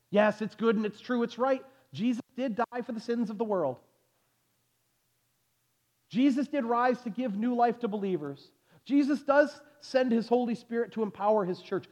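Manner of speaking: high-pitched, insistent preacher's concession; ringing pulpit affirmation; emphatic preaching. Real, not acted. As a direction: build the general truths up high before the turn. Preacher concedes the general truths forcefully.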